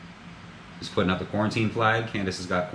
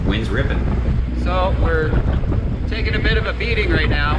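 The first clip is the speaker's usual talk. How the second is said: raised voice over the wind; shouting over wind; 9 semitones higher, 9 dB louder than usual. Real, not acted. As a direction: talk loud over the roaring wind. Talking over wind at sea.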